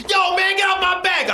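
a mock gruff brush-off; hint of a rapper's snarl, played for laughs; rapper impression. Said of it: "Between a rapper doing this".

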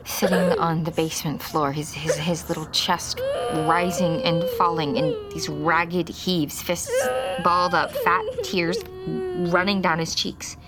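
crying through the memory; narrating through sobs; tearful telling. Acted. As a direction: let the tears break into it. Narrator reliving finding the ghost.

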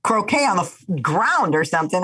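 high happy dog voice; cheerful carefree dog; lightly voiced playful dog; dog's voice. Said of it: "He's like".

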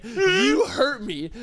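slow, high mock-crying whine; mock hurt. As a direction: whimper it, hammed-up wounded. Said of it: "First, I wanted to be like".

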